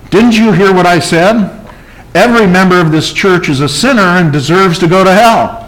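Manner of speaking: a touch of annoyed pulpit scolding; irritated. Retold or imitated. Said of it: "the pastor's getting kinda irritated".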